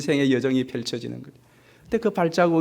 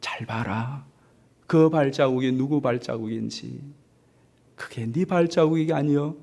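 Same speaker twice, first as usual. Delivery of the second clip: gentle smiling Jesus. Acted. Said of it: "빙그레 웃으면서".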